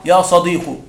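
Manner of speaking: يا صديق ending in a short "-u" as "sadiqu"; يا صديق voiced "ya sadiqu"; damma ending. Shown as a demonstration. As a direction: say يا صديق with a final "u". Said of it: "تقول".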